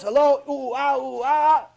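high playful ooh-ah hooting; mock monkey hoots. Debtor fooling the creditor at the door, mock monkey hoots. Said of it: "he thinks he's a monkey".

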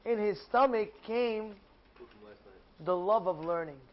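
usual speaking voice

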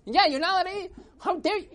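high, loud indignant shouting; upset. Acted. Crowd keeps scolding the old man, upset shout. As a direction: yell it, scandalised. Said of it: "they were all upset".

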